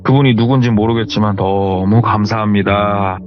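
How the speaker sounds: relieved prayer. Retold or imitated. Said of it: "그렇게 기도를 했대요".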